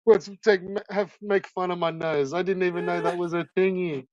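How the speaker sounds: a hint of a confused whiner; mock quote. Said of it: "he's like".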